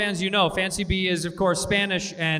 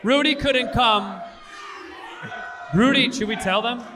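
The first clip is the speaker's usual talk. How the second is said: mock outrage; 5 semitones higher, 3 dB louder than usual. Mock announcing Rudy's deportation.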